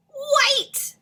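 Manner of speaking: high, loud answer shout; reveal. Acted.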